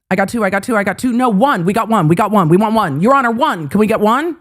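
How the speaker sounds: lightly voiced auction caller patter; mock auctioneer. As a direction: rattle off bids like an auctioneer. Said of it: "are we horse trading?".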